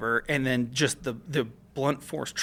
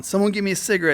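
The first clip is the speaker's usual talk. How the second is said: mild mock yell, pitched up; half-raised voice imitating a yell; retold yell; 7 semitones higher, much faster than usual. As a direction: call out higher, retelling a yell. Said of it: "I'm yelling".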